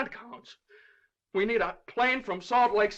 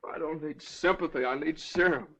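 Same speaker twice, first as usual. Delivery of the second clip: low, subdued, spent; weary despair; 4 semitones lower, 4 dB quieter than usual. Acted. Father refusing the judge's sympathy, weary despair. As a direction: drop down, drained after the outburst.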